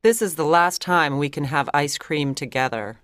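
a touch of sadness in a character voice; sad. A narrator's reading. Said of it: "said Barbara sadly".

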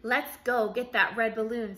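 rally the crew; commander's call. Acted. Commander to the crew at launch, loud rallying call.

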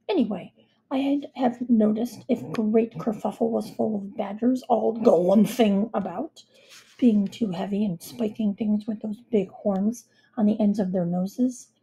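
lightly voiced blustering king; a touch of royal bluster; King Toothbrush Weasel. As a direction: hold forth confidently, punching the odd word.

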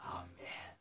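hushed close to a prayer; whispered amen. Real, not acted. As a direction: let the amen out on a breath.

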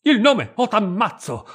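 minaccia urlata, più acuta e forte; ruggito. A narrator's reading. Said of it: "ruggì allora il Brandi". (il fratello minaccia la sorella, ruggendo)

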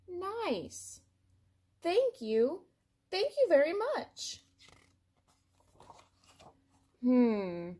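a pigeon melting with gratitude; delighted pigeon. Acted. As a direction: gush your thanks like a happy bird. Pigeon overjoyed at receiving cookie.

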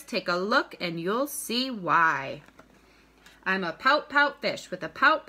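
bouncy picture-book rhyme, punching each pout; reading to children. A narrator's reading. Teacher reads a rhyming fish book to students, read-aloud lilt. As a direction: read it aloud with a lilting beat.

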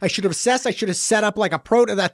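mock earnest, each phrase lifting; mocking imitation. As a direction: parrot it back as a teasing list. Mocking co-host's overly formal apology.

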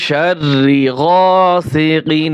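গাসিকিন slow, with a clear, unnasalized final ন; clear recitation. Shown as a demonstration. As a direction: say কিন clearly, without ghunnah. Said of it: "স্পষ্ট হবে". (স্পষ্ট করে ধীরে তেলাওয়াত)

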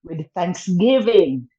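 slow, measured Bible verse reading; scripture recitation. Acted. To a fellow patient, reciting a comforting Bible verse slowly.

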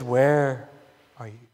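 low, drawn WHERE, then "are you" dropped away; stress on WHERE. Retold or imitated. Preacher quoting God's question to Adam, stress on WHERE. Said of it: "it didn't say, "How are you?".

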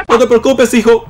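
reassurance with a laugh in it; amused reassurance. Pretend. Player to his dead game son, amused reassurance. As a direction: reassure through a leftover laugh.

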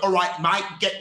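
put-on rough stab at a Cockney accent. Trying out the accent everyone makes fun of, Cockney. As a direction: try a quick, exaggerated Cockney greeting. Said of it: "Cockney, yeah".

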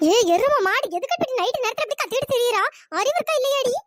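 loud, irritated telling-off; exasperated scolding from a woken sleeper; angry scolding. Acted. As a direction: tear into her for waking you. Scolds screamer for waking her.

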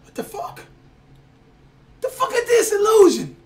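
freaked-out shout; scared horror game streamer. Real, not acted. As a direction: yell in confused fright. Spooked by weird game room.

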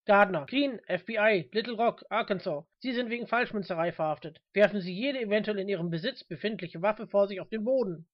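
firm arresting-officer voice, loud at first; FBI agent arresting. Acted. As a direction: state name and charge with authority.

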